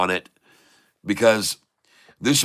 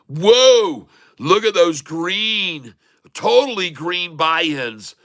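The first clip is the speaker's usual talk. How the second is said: amazed whoa; 5 semitones higher, much slower than usual. Real, not acted. Streamer marvelling at green candles on the chart.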